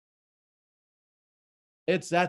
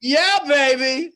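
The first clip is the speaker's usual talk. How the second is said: excited cheer; 6 semitones higher, 5 dB louder, slower than usual. Real, not acted. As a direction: hype her up with a big slow cheer. Cheering Laura after praise.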